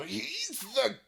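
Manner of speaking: loud, urgent warning; urgent yelling. Acted. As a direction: shout the danger at him. Kappa yells warning.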